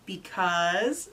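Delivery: drawn-out rising question, smiling; smiling expectancy. Retold or imitated. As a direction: coax out the answer through a smile. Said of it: "with a big ol' smile".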